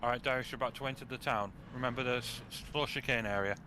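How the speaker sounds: talking while chewing an apple; words through a mouthful of apple; crunching an apple. Real, not acted. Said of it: "me crunching an apple".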